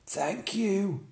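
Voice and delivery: high, slow giraffe voice; a long-necked animal's lament. Acted. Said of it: "said the giraffe".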